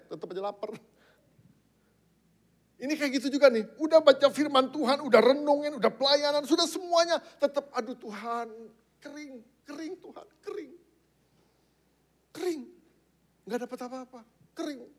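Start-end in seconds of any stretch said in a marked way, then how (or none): 2.8-7.7 high, mounting list; insistent preaching. Real, not acted. Preacher listing all the devotions that still fail, insistent. 7.7-14.9 high, soft mock complaint to God; plaintive lament. Dry believer complaining to God after all the devotions, plaintive.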